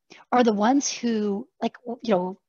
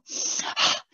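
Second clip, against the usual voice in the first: exaggerated sigh; 4 dB quieter than usual. Shown as a demonstration. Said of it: "obviously I'm exaggerating".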